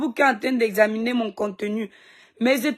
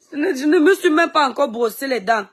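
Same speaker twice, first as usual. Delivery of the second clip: laughing through the words, a bit louder; 3 semitones higher, 3 dB louder than usual. Real, not acted. Laughing as she admits to her fans she hasn't brushed her teeth. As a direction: giggle at your own confession.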